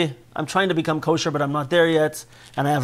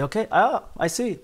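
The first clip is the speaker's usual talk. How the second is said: calm acknowledgment. Pretend. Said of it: "you say".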